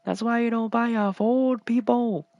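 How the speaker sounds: high, exaggerated Asian accent impression. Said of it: "And I said in an Asian accent".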